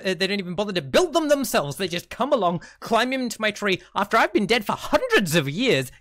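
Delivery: put-on indignant old man rant; feisty old man. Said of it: "Algin's feisty".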